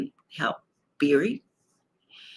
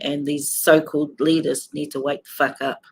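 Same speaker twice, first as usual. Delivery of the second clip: angry. Real, not acted. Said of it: "that's how angry I am".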